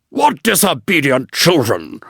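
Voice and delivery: lightly voiced grumpy water rat; a hint of a peevish old rat crying out; mild cry of a cross old rat. A narrator's reading. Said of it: "cried the old water rat".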